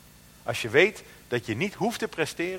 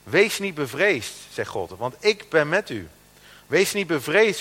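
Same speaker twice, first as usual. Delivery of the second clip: scripture reading; 3 dB louder than usual. Acted. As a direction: stress every promise firmly. Preacher reads Isaiah.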